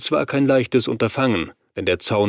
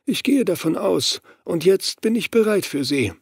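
menacing cursed man; 9 semitones higher than usual. Acted. Gary's menacing reply.

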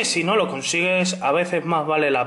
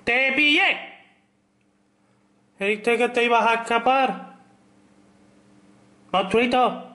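excited; 7 semitones higher than usual. Real, not acted. Catching a Pokémon in game.

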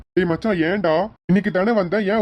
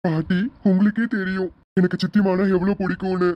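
put-on higher-pitched, sad little-kid voice; tearful child; 4 semitones higher than usual. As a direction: play a child upset about being left behind. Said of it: "அழுக கூடாதுன்னு சொன்னேல". (அழும் குழந்தையின் குரல்)

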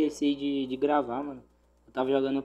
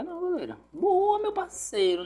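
excited cheering. Real, not acted. Torcendo contra o goleiro.

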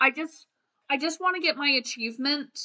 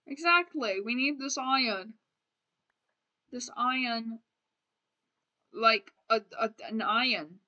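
badly faked British accent. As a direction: put on a clumsy British accent. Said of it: "the worst British accent ever".

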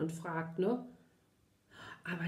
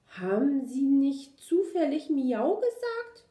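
nervous question, raised in pitch and volume; stammering; 5 semitones higher, 5 dB louder than usual. A narrator's reading. Puppy questioning the big shaggy dog, nervously stammering. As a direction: ask it anxiously, voice pitched up. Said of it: "stotterte Kuli".

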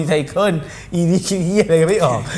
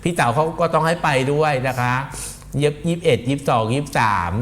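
mock pageant spiel; 3 semitones lower than usual.

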